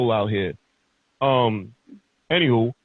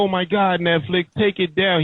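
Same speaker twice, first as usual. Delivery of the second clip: mock outrage; 5 semitones higher than usual. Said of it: "They're like".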